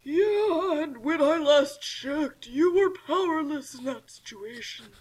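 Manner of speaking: slow, half-whispered sneer; villain taunt. Acted. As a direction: taunt her with a hushed menace.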